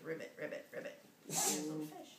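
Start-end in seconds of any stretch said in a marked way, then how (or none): 0.0-1.0 frog croak. Shown as a demonstration. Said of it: "Frog says".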